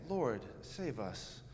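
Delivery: solemn pulpit reading. Retold or imitated. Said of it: "this is how we hear this read, uh, from the pulpit".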